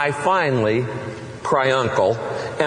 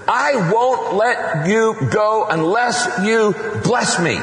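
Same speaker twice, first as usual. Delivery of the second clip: panting plea; 5 semitones higher, slower than usual. Acted. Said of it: "But Jacob panted".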